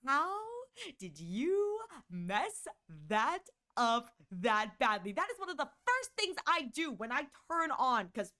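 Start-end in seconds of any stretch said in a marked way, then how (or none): 0.0-5.1 incredulous. Retold or imitated. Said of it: "I was just sitting there going".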